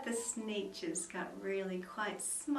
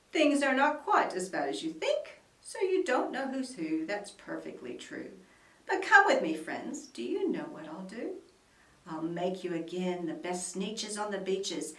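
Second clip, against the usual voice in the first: sly pitch; 4 dB louder than usual. Acted. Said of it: "with a very sly wink".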